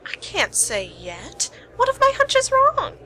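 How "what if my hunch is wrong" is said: teasing. Acted. Detective playfully teasing the partner.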